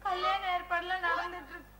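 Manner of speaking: words pushed out through tears; tearful crying. Acted. Daughter tearfully telling her lover about the arranged wedding, crying. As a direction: speak while crying, voice catching. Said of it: "ஏன் அழற?".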